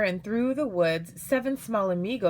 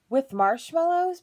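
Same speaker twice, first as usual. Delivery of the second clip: put-on high, louder pleading of little girls; excited kids' high-pitched plea; eager begging; 9 semitones higher, 6 dB louder than usual. A narrator's reading. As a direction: beg for a treat, voice pitched right up. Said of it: "begged the girls".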